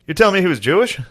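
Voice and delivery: high, loud startled yokel; hammed-up outraged Southerner; mock shocked redneck. Acted Southern lyncher.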